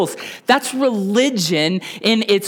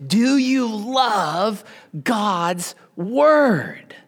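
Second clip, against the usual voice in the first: slow, half-whispered question to the congregation; soft slow question; 3 semitones higher, much slower than usual. Real, not acted. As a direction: draw them in softly, almost a whisper. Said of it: "Come on".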